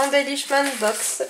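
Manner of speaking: English name in a careful French accent. Real, not acted. Vlogger naming the English craft box she received, French accent. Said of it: "mon accent anglais n'est pas au top".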